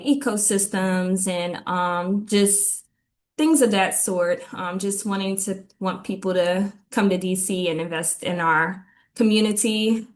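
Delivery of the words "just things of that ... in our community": slightly winded while talking; out of breath. Real, not acted. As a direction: speak a little out of breath. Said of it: "my apologies if I'm out of breath".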